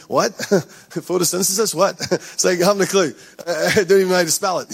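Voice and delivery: giggling through a mock blank-minded student; laughing while playing a student who forgot it all. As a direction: laugh at your own cluelessness. Mocking forgetting school test answers.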